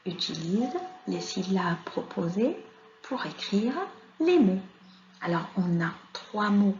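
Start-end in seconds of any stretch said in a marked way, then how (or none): 0.1-4.6 instruction read-out. Shown as a demonstration. Reads the exercise instruction aloud.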